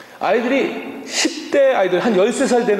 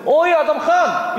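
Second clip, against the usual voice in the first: drawn-out, higher-pitched cheeky hail; mock obnoxious call; 6 semitones higher, slower than usual. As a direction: imitate an annoying kid calling out to an elder. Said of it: "벌써 얄밉잖아요". (얄밉게 부르는 흉내)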